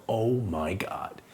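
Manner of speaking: slow, voiceless whisper; whispered dismay. Retold or imitated. Sees the guys may box him, slow dismayed whisper. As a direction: whisper it slowly in disbelief. Realising who the guys are.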